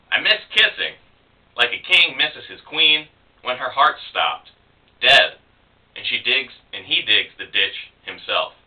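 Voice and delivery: spoken verse with deliberate pauses; poetry reading. Acted. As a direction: recite your poem with weight on each phrase. Reads own poem aloud.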